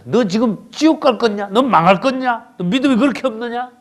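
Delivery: high-pitched scolding, question after question; acted stern rebuke. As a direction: scold the disciples as the Lord would. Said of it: "꾸짖는 거야". (제자들을 꾸짖는 주님 흉내, 높은 목소리로)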